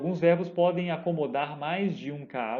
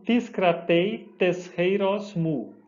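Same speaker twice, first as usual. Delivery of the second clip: slow careful reading; 2 semitones higher, much slower than usual. Shown as a demonstration. Reading the Greek verse slowly.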